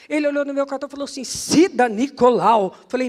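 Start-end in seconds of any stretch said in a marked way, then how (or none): 1.2-2.7 loud, drawn-out cry of recognition; astonished exclamation. Retold or imitated. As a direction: read the name out slowly in loud amazement. Lê o cartão, espantado. (exclamação de espanto, alta e arrastada)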